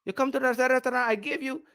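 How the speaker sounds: put-on Chinese-accented restaurant owner in broken English; lightly put-on Chinese accent, matter-of-fact retort; mock Chinese accent. Chinese owner telling off a customer in his restaurant, mock Chinese accent.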